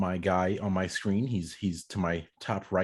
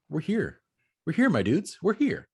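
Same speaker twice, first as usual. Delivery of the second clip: hyped up; 8 semitones higher, 4 dB louder than usual. Real, not acted. Host hyping the episode restart.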